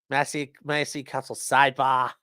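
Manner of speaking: mock Massachusetts accent with dropped R's. Mimicking the attorney asking to see counsel, Massachusetts accent. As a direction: echo it in a light Massachusetts accent. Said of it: "that's a real Massachusetts accent".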